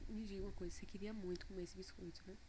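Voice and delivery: soft, quiet and calm; gentle listening. Retold or imitated. Mother retelling her gentle question to her daughter. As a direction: ask kindly, inviting her to talk. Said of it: "olhei pra ela".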